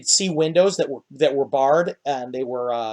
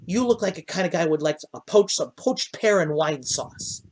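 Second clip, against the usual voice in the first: higher and quick, then slowing on the dish; gnome host; 3 semitones higher than usual. Acted. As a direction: savour the dish's name.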